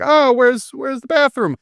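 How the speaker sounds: high, light innocent question; mock casual voice. Retelling the scene, a high casual voice. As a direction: play the killer sounding harmless. Voicing the killer asking casually.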